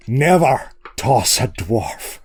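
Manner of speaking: a bad, slow Welsh accent; lightly put-on Welsh accent. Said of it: "That was a terrible Welsh accent".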